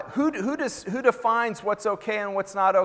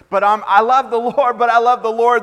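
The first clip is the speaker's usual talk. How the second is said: louder, higher, exasperated protest; mock angry husband; 5 semitones higher, 9 dB louder than usual. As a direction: imitate a stressed man snapping while claiming faith. Stressed husband yelling at wife.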